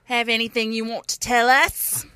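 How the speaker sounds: put-on failed Boston accent that sounds British; Boston gone British. Host reading the contact plug, Boston accent slipping British. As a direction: aim at Boston, land slightly British. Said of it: "supposed to be Boston accent".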